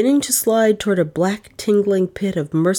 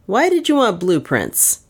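thundering; 3 semitones higher than usual. Acted. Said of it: "he thundered".

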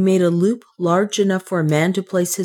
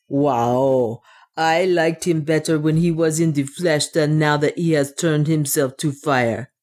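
lightly voiced dwarf with accented English; measured, slightly foreign-sounding dwarf; superstitious dwarf. Otter reasons with himself in the cave, lightly accented dwarf voice.

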